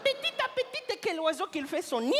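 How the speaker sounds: high, slow, airy mock voice; a high slow fable-telling voice; sing-song proverb. Proverb said in put-on voice.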